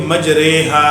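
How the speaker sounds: मजरेहा with the ra leaning toward re, between ri and ra; correct imala pronunciation. Shown as a demonstration. Teacher showing students the right मजरेहा. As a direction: say मजरेहा with a tilted e vowel after r. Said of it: "हम इन दोनों के बीच में पढ़ेंगे".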